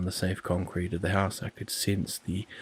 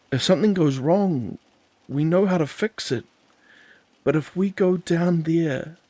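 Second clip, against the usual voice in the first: much higher and louder, slowing on the warning; desperate pleading; 8 semitones higher, 6 dB louder than usual. Acted. Joel begs Andy not to risk losing each other, high and loud. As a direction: make her see the danger.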